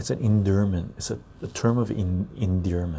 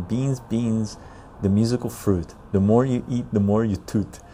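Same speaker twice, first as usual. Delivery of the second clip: reciting a rhyme. Shown as a demonstration. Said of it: "U S version".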